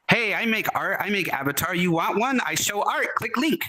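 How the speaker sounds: broken-English scam message. Retold or imitated. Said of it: "they're usually written just like that".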